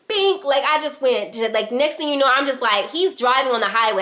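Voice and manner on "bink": mock curse. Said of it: "I said".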